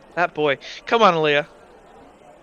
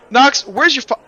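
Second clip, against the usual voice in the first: loud, high mom calling her son; a mother shouting across the street for her boy; calling out for Nox; 7 semitones higher, 6 dB louder than usual. Acted. Mom loudly calling for her missing son.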